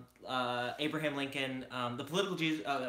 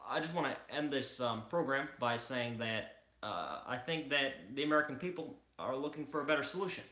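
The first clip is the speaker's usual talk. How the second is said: Obama impression. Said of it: "people who wanna do Obama's voice".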